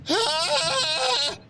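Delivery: very high startled shriek. Acted. Woman startled by a voice, shrieking in fright. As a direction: shriek as the knife drops. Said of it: "I let out a shriek".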